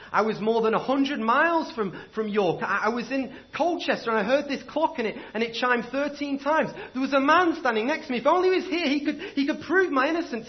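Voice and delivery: condemned man pleading frantically for his life; desperate plea. Acted. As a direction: beg the court to believe you. Accused pleading innocence in court.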